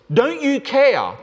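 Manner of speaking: high, slow, pleading cry; frightened plea. Acted. Disciples waking Jesus in the boat, frightened. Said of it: "incredibly frightening, incredibly fearful".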